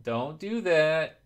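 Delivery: slow, firm and emphatic; stern warning. Real, not acted. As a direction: drag it out as a warning. Warning chat about follower-begging.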